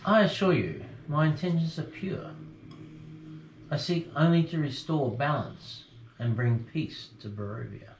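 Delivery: hearty abbot welcoming guests; a lightly booming friar's welcome; jolly booming friar. Acted. GM voices the abbot.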